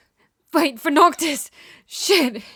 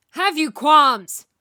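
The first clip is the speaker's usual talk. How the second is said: "Have you qualms?" slow, with "Have" hit hard; stress on have; 2 semitones higher, 3 dB louder, much slower than usual. Shown as a demonstration. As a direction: drag it out, leaning on "Have". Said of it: "retake of the same line".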